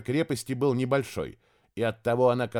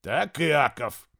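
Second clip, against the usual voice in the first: loud call; 2 semitones higher, much slower than usual. Acted. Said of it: "Асмут говорил громко, а последние слова совсем прокричал".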